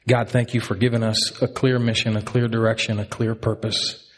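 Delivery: earnest pastoral prayer. Acted. Pastor praying for the congregation, earnest prayer. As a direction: pray it over the church.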